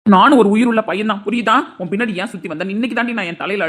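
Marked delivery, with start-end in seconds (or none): 0.0-1.6 angry retort. Acted. Husband shouting back.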